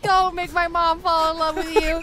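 put-on terrified child. Child begging frog to leave mom, mock wail. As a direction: beg as if close to sobbing. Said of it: "you are terrified and confused by this frog".

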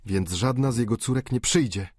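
an understated outcry; exclaiming. Acted. Rastignac exclaims to the dying father, dismayed. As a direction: call it out in dismay. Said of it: "zawołał Rastignac".

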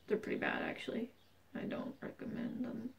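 hushed conspiratorial whisper. Pretend. Warning viewers in secret about Dole bananas, whispered. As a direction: confide it like a secret so nobody hears.

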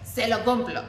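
slow, mock-dignified resolve. Woman refusing to back down after the fight, slow dignified resolve. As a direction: measure out each word with stubborn pride. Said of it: "yo muy digna".

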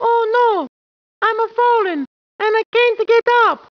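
high, mock-panicked ad cry; TV ad impression. The speaker parodying an American TV ad, mock-panicked. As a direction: ham up the old TV ad plea. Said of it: "That is my impression of American advertising".

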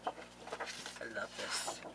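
slow breathy whisper of delight; awed whisper. Real, not acted. Unboxing crafter whispers over paper in awe.

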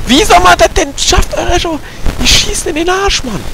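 frustrated complaint. Real, not acted. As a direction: complain loudly in disbelief. Stirbt immer wieder im Spiel. (frustriert und laut)

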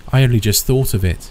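high, breathless hysteria; hysterical. Acted. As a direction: spill it out in a frenzy. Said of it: "she said hysterically".

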